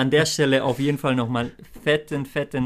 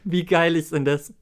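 laughing; 6 semitones higher than usual. Real, not acted. Laughing at main prize draw.

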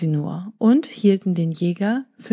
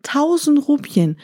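surprised; 7 semitones higher than usual. Acted. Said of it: "sprach der Kaufmann".

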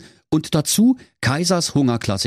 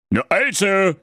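pleased exclamation; 12 semitones higher than usual. A narrator's reading. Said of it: "rief König Hennerkotelett erfreut".

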